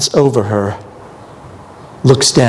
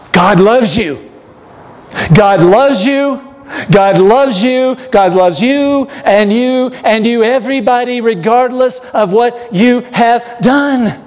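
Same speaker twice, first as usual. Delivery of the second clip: preaching at full force; 10 semitones higher, slower than usual. Real, not acted. Preacher assuring the congregation, rising and slow. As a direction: lift it up and drive it home. Preacher declares God's love.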